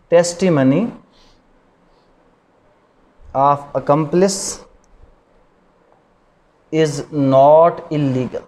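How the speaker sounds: very slow, word by word, pausing between words; slow dictation. Shown as a demonstration. Law teacher dictating the rule to his students, very slow. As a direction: spell it out slowly so students can write it down.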